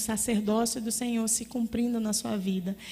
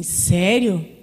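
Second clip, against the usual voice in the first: surprised question; 3 semitones lower, 7 dB louder than usual. Retold or imitated. Husband reacts in surprise.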